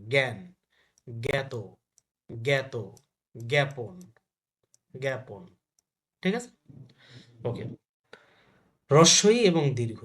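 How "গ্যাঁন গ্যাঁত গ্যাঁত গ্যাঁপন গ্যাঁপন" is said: জ্ঞান, জ্ঞাত, জ্ঞাপন each opening "gæ". Shown as a demonstration. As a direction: separate word drill, hard g in জ্ঞান, জ্ঞাত, জ্ঞাপন. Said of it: "গ হবে". (জ্ঞান, জ্ঞাত, জ্ঞাপন-এ "গ্যাঁ" উচ্চারণ)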